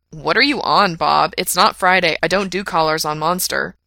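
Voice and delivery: exasperated protest; irritated. Acted. Irritated host questioning producer.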